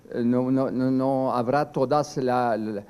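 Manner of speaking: ordinary talk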